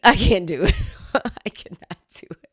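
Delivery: laughing it off, breathy giggle. Real, not acted. Host laughing at her failed accent, giggling. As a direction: crack up and give up. Breaking into laughter at own attempt.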